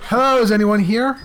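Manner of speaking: a light put-on lady voice. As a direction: greet the room in a mock lady voice. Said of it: "disguise your voice as a lady?".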